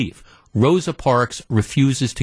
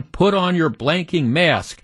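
mild mock yell, slow and raised; higher-pitched, half-voiced scream; retold scream; 4 semitones higher than usual. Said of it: "And she's screaming".

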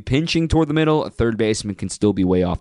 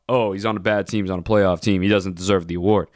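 mocking quote; 5 semitones lower than usual. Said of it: "I don't ever wanna hear about".

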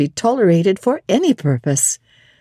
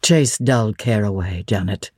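a hint of a lower, tender master; lightly voiced Rochester; 8 semitones lower than usual. Rochester soothing Jane at the window, lower and fond. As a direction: speak low and fond to her. Rochester's gentle words to Janet.

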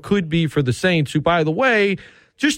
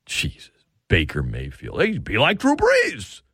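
mock disbelief; 4 semitones lower than usual. Mocking the Brees comparison.

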